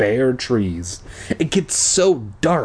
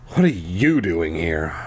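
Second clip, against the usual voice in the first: lower, glum question; 6 semitones lower than usual. A narrator's reading. Boy glumly asking the new girl why she's there, glum. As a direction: ask it flat and downcast. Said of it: "I asked glumly".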